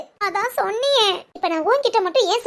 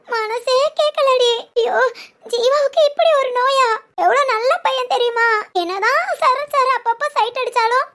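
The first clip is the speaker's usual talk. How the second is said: laughing through tears. Acted. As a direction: sob and giggle at once over a friend. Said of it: "கண்ணீரை விட்டுட்டே சிரிக்கிற". (கண்ணீருடன் சிரிப்பு)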